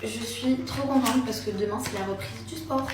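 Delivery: slight lisp; talking with a light lisp. Real, not acted. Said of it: "je zozote un petit peu".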